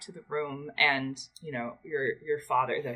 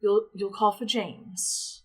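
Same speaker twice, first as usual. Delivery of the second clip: fussing mother; 9 semitones higher than usual. Acted.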